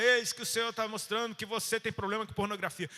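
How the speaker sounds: hammed-up prophetic denunciation; condemning prophet. Prophet exposing someone's sin to their face, condemning and loud. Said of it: "Você não vai chegar e falar".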